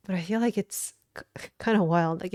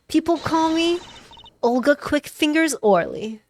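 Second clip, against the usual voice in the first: higher, louder card dealer character; bold, raised-pitch nickname reveal; brash dealer voice; 7 semitones higher, 4 dB louder than usual. Acted. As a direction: boast your nickname high and loud. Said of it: "doing the other voice more".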